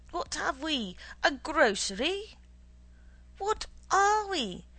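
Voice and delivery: indignant official lecturing an underling; pompous, scolding manager; blustering boss. Acted. Boss character lecturing subordinate.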